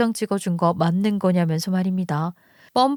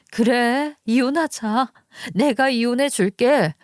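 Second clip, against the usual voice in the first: higher-pitched acted outburst; crying out; 3 semitones higher, slower than usual. Wife agrees to divorce before the mistress, crying out. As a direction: call it out, pitch raised in defiance. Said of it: "말을 한 번 더 외쳤습니다".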